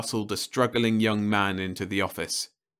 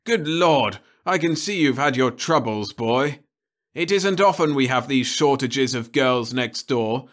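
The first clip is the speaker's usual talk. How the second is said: higher and louder, booming rebuke; thundering; 6 semitones higher, 5 dB louder than usual. Acted. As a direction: thunder at the boy. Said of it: "Crumbine thundered on".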